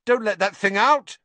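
loud, high warning cry; sharp panicky command; alarmed. A narrator's reading. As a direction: shout an urgent order. Alarmed warning about the cat.

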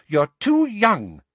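high, slow firm warning; high stern motherly voice. A narrator's reading. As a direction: say it like a worried mum. Mother's original line.

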